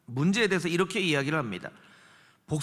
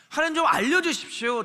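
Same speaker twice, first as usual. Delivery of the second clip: pleading prayer demo; 7 semitones higher, 3 dB louder than usual. Shown as a demonstration. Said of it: "이렇게 하나님 앞에 기도해야".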